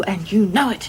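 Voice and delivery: hushed, breathy argument; whispering. Acted. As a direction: keep it to a whisper. Hushed argument outside hospital room.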